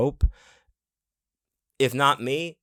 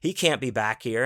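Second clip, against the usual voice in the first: mild mock yelling, only a little raised; retold mock scream; 2 semitones higher than usual. Angry frat guy wants the intruder gone, half-voiced scream. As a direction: act out an outraged complaint without really screaming. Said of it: "He is screaming to get me out of there".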